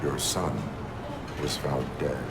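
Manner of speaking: low, softened, halting delivery; grave bad news. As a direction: break the news gently, in short phrases. Officer breaks death news to mother.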